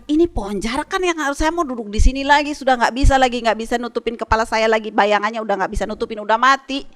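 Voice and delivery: mild mock annoyance; upset Jonah. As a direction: whine it like a man robbed of his shade. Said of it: "dia kesal".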